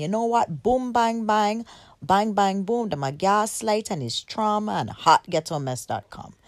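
lively, emphatic put-on Jamaican patois accent. A speaker drives a point home to the audience, in a Jamaican accent. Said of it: "I had to use my Jamaican accent".

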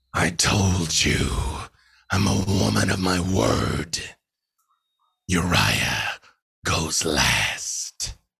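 terrible, dreadful monstrous creature voice. A game master voices a creature looking down at a struck-down character: terrible monstrous voice. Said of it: "you do hear that terrible voice again".

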